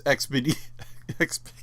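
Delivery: words collapsing into real laughter; can't stop laughing. Real, not acted. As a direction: break off mid-word in giggles. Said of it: "can't even say it without laughing".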